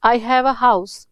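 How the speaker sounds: very slow, clearly spaced reading; slow example. Shown as a demonstration. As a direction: read "I have a house" deliberately for learners. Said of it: "example read slowly".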